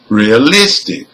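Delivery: "realistic" stressed on LIS; penultimate stress. Shown as a demonstration. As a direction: hit the third syllable of "realistic". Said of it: "second syllable from the end".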